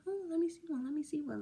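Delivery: high-pitched playful pleading; mild begging. Retold or imitated. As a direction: beg lightly, like coaxing a favor. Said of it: "begging him".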